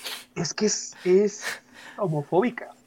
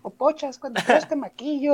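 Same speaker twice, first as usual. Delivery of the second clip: el Púas; 4 semitones higher, 7 dB quieter than usual. Retold or imitated. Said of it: "un personaje de Omar Chaparro que era el Púas".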